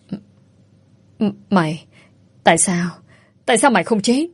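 halting, broken stammer that rises on the last question; terrified stammer. Acted. Bà cả stammers in terror at the woman she thought dead. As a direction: stutter out the words in panic as a ghost appears. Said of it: "lắp bắp không thành tiếng".

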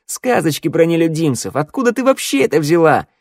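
loud, high-pitched mocking disbelief; scornful. A narrator's reading. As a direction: scoff at her fairy tales. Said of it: "фыркнула Шныряла". (презрительно, громко)

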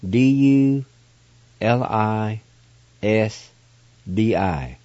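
letters read slowly one by one; spelling out letters. Shown as a demonstration. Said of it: "And it's spelled".

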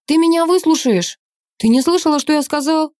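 high, loud furious shout; father and daughter shouting over each other, high and loud; angry shouting. A narrator's reading. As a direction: yell it back at him.

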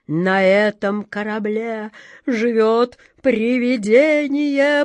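slow, drawn-out wail of dread; moaning. A narrator's reading. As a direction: moan it out slowly, rising and loud. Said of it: "простонал длинный Джек".

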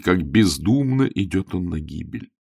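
usual speaking voice

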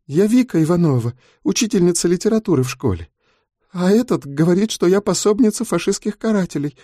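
a scared teacher barely holding back tears; young teacher telling a fellow prisoner her plight; frightened young woman. A narrator's reading. Tearful girl explains arrest.

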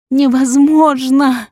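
slow, high drawn-out scream; anguished scream. A narrator's reading. Heroine screaming denial while fighting the nurse. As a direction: wail the word.

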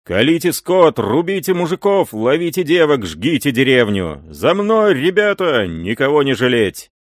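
high, loud commands; rally the raiders with fierce shouted orders. A narrator's reading. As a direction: leader ordering his men to burn the village, shouting. Raider leader commanding the attack.

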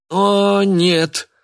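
high, loud cry of dismay. Acted. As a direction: throw the words up in despair. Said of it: "всплеснул руками Кеша".

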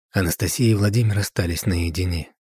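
ordinary delivery

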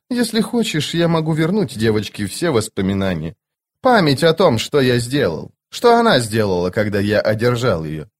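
a lightly voiced stern immortal; Cotillion voice. Cotillion voice again.

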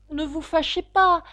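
coaxing. A narrator's reading. Alice tries to calm the angry mouse, coaxing. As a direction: placate with a caressing tone. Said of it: "d'une voix caressante pour l'apaiser".

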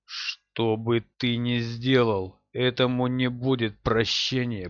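icy, measured threat; cold and steely. Acted. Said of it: "голос его отдавал холодом и металлом".

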